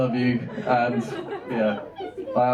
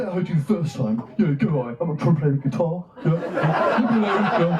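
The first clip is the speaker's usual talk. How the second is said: snapping; 5 semitones higher than usual. Retold or imitated. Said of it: "snap and go".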